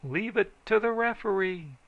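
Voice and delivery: high loud holler across the crowd; loud high call-out. A narrator's reading. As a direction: holler to be heard over the din.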